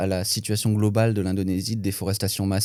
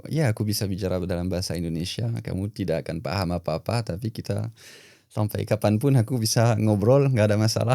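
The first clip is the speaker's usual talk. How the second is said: speaking Indonesian. Shown as a demonstration. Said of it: "T'es chaud pour faire une phrase ou deux en indonésien".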